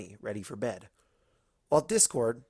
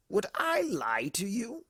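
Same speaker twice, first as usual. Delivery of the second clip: slow, raised innocent question; mock innocent Discord; 10 semitones higher, slower than usual. Discord to the ponies, mock innocent and slow. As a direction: play innocent.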